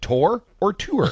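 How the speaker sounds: first "tour" as tore, second "tour" as too-er; two rival pronunciations. Shown as a demonstration. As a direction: contrast "tour" with an or sound against "tour" with an oo sound. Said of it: "so caught up on the pronunciation".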